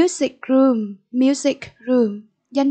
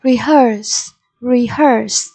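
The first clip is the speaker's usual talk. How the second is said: "Rehearse" stressed on HEARSE; stress on second syllable; much slower than usual. Shown as a demonstration. Teacher modelling vocabulary for pupils, "Rehearse" stressed on HEARSE. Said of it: "nhấn âm tiết số hai".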